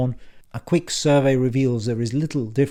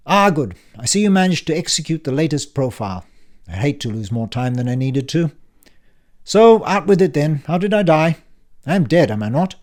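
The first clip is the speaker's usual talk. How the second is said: put-on louder, higher, impatient old man; brusque uncle Frank; 4 semitones higher, 7 dB louder than usual. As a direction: bark it like a testy uncle back from the dead. Frank's voice held.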